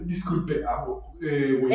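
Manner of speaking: un toque de mayordomo viejito, más suave; voz de viejito. Retold or imitated. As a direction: imita a un viejito servicial en voz baja. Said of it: "le da esta voz de viejito". (leve imitación de viejito mayordomo)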